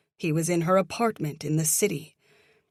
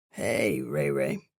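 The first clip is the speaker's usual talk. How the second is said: smiling; 14 semitones lower, slower than usual. Acted. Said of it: "She heard the smile in his voice".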